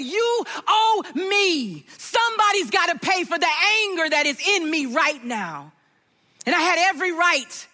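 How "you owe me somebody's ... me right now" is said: demanding payment. Retold or imitated. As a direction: lay down the charge like a judge. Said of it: "and I said".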